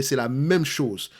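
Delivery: light Cameroonian French accent, slow. Shown as a demonstration. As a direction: drawl it out slowly with a hint of Cameroonian accent. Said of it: "je vais prendre mon accent camerounais". (léger accent camerounais, lent)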